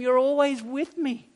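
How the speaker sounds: loving, pleading reassurance; tender father. Acted. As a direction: soothe an upset son, voice lifted. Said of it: "Do you hear the tenderness".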